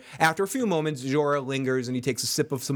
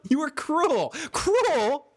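higher, indignant back-and-forth; acted exchange; 12 semitones higher, much slower than usual. Friend voicing Sam and John arguing, indignant. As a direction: toss the word back in disbelief.

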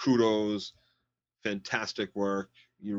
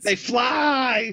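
mock shout; 13 semitones higher, 5 dB louder than usual. Mock-villain line, shouted high.

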